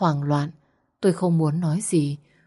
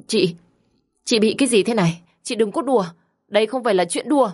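hurried panicky question; 5 semitones higher, faster than usual. Acted. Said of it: "Tôi vội vàng hỏi ngay".

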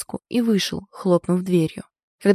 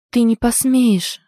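slow, loud desperate outburst; frightened cry; 4 semitones higher, 4 dB louder, slower than usual. Acted. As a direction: fling it out in panic. Heroine cries out in fear. (испуганный выкрик)

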